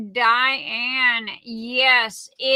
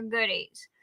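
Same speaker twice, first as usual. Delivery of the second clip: whisper; 3 semitones lower, 9 dB quieter than usual. Real, not acted. Secret present.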